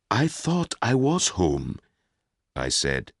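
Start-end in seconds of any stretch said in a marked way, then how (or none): 0.1-1.8 sad rather than angry. Acted. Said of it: "more in sadness than in anger".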